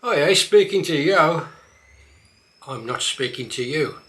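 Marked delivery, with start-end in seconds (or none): 0.0-1.5 louder broad Black Country line; Black Country accent, loud. Shown as a demonstration. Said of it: "A few more".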